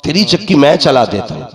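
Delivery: loud declamatory quote; proclaimed quote. Retold or imitated. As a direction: proclaim it out to the congregation. Same quote proclaimed to the audience.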